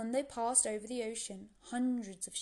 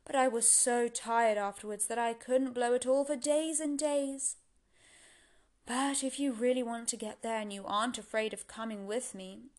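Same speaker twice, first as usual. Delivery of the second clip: loud, strong wind spirit; North Wind voice; 5 dB louder than usual. Acted. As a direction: boom it out like a great wind.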